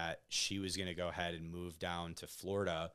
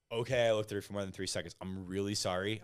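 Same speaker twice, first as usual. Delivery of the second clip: quick, slightly raised retort, giving in; exasperated apology; 4 dB louder, faster than usual. Retold or imitated. Boyfriend conceding to girlfriend in a retold argument, exasperated. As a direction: hurry out a mildly exasperated concession.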